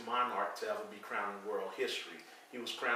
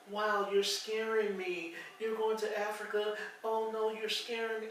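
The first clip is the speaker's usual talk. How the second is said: scared white lady; 10 semitones higher than usual. Retold or imitated. Husband mimics a frightened business caller, high and mocking. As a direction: ham up her frightened gasp at Africa. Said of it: "She's like".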